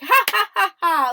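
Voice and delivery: imitated lead laugh. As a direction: imitate a laugh with loud, separate ha's. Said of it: "a little bit of a lead laugh".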